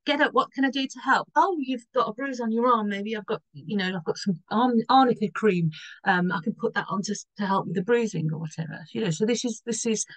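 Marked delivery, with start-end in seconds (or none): 0.0-8.3 fussing Virgo helper. Retold or imitated. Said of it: "they'd be going".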